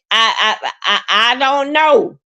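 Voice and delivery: fighting back real tears; choked up. Real, not acted. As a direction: voice catching with tears, halting. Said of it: "I'm getting so emotional".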